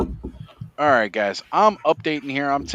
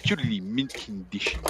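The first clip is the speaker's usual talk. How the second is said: Comic Book Guy voice; 6 dB quieter than usual. Acted. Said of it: "Comic Book Guy".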